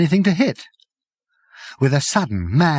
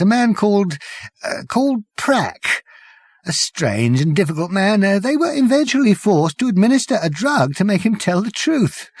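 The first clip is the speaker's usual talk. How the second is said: high, trembling whimper; a frightened, whimpering madman; 6 semitones higher than usual. Acted. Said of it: "he said in a tiny whimper".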